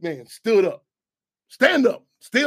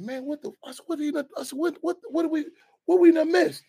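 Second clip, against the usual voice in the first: retold shock; 10 semitones higher than usual.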